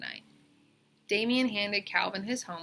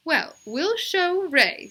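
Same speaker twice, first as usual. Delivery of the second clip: determined teacher; 9 semitones higher, 8 dB louder, much slower than usual. A narrator's reading. Teacher resolves to act.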